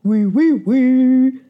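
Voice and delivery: loud puffing baker yes; baker shouting. A narrator's reading. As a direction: call out as the running baker. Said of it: "Le boulanger court et crie".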